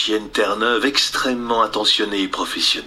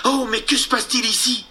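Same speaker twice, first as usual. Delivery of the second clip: voix de fillette, plus aiguë, étonnée; réveillée en sursaut; fillette surprise; 10 semitones higher than usual. Acted. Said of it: "s'écria Wendy". (Wendy réveillée, surprise)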